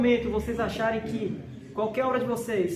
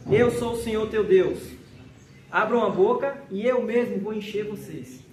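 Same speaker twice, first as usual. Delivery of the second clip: emphatic scripture proclamation; 4 dB louder than usual. Real, not acted.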